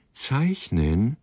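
a high rising, alarmed "Zeichnen?"; startled echo. A narrator's reading. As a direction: throw back "Zeichnen?" in shocked disbelief. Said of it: "rief Abraham und hob abwehrend die Hand".

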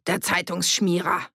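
mildly scornful call to the room. A narrator's reading. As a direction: throw the insult out for all to hear. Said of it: "rief er in die Runde". (abfällig in die Runde rufen)

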